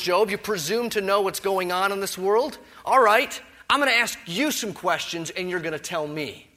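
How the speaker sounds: mock Job's presumption from above; sarcastic God. Preacher voicing God taunting Job, loud sarcastic challenge. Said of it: "I'm using this sort of dialogue here".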